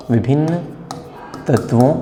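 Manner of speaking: each word apart with long pauses; dictation pace. Shown as a demonstration. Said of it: "आप भी अपना note करते जाइए".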